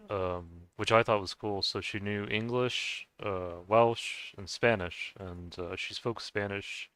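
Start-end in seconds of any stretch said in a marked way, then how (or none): 5.8-6.9 slightly slurring words; slurred speech. Real, not acted. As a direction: let the words run together a bit. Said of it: "I'm slurring my words".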